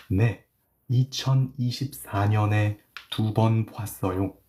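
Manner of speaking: careful, measured teaching read; slow reading. Shown as a demonstration. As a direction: sound out each phrase slowly. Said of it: "I will read it slowly".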